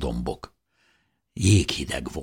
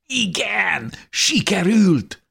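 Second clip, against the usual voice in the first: high, slow, jubilant reply; overjoyed; much slower than usual. A narrator's reading. Answering Dávid after breaking through, jubilant. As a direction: answer beaming with happiness. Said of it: "feleltem a boldogságtól repesve".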